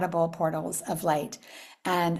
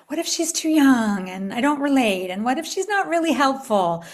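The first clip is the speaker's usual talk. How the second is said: worried doubts; 3 semitones higher than usual. Retold or imitated. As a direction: fret over each what-if. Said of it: "questions came up in my mind".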